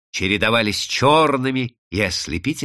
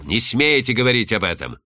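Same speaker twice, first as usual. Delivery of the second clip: usual speaking voice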